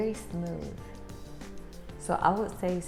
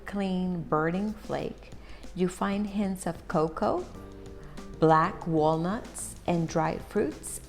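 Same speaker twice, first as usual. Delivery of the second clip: slow product read; slower than usual. Acted. Reads the tin description aloud.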